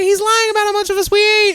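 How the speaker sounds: very high, fast squeaky tattling. Pretend. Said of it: "they're like".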